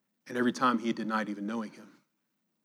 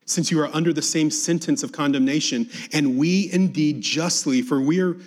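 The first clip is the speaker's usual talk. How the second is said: raised, insistent scripture-reading rebuke; rebuking; 5 semitones higher, 7 dB louder than usual. A narrator's reading. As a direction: read the criminal's rebuke higher, with mild force. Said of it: "the other rebuked him".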